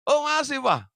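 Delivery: put-on high, loud little kid reply; eager child. Youngest child eagerly telling father the chocolate remains. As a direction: chirp it out brightly.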